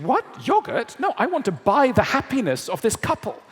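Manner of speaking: high, loud incredulous protest; baffled viewer. Retold or imitated. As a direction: act outraged at the ad. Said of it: "And you're thinking".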